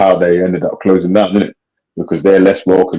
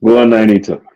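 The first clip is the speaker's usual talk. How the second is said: a hint of an Irish accent; lightly put-on Irish accent; 2 semitones higher than usual. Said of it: "That was my Irish accent still".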